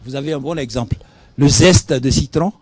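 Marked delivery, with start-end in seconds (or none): 1.4-2.5 Le zeste de citron, with the z of zeste carefully sounded; slow deliberate diction. Shown as a demonstration. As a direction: make zeste clearly distinct from geste. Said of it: "je dois faire sentir".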